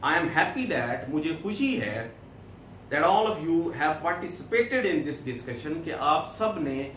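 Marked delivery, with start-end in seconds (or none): 0.0-1.1 very slow, word by word English reading; slow dictation. Shown as a demonstration. Reads English text slowly. 2.9-5.8 very slow, word by word English reading; slow dictation. Shown as a demonstration. Reads English text slowly.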